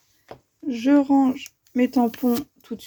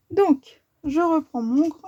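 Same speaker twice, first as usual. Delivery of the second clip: hiccups breaking the words; talking through the hiccups; hiccuping; 4 semitones higher, slower than usual. Real, not acted. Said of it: "j'ai le hoquet tout d'un coup".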